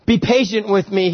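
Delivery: lightly acted plea; begging servant. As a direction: beg the master for time. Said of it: "he begged".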